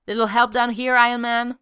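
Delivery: urgent call across a battlefield. A narrator's reading. Cap calling for help mid-battle.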